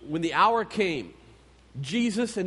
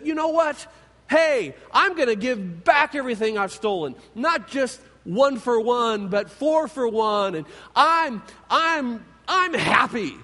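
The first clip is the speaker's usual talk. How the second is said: giddy promise, a bit louder at the end; bursting with happy resolve; excited; 2 semitones higher, 3 dB louder than usual. Acted. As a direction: tax collector Zacchaeus, overjoyed, promising to give everything back. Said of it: "He is excited".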